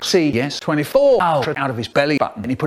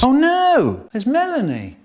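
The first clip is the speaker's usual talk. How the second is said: mock dismay; 10 semitones higher than usual. Acted dismay amid dead kids.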